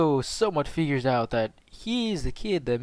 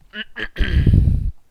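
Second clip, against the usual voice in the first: throat clearing; 7 semitones higher, 11 dB louder than usual. Real, not acted. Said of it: "Sorry, gotta, gotta do Naruto voice".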